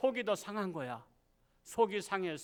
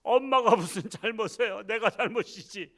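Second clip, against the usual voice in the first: tearful reply; 3 semitones higher, 4 dB louder than usual. Retold or imitated. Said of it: "펑펑 울면서".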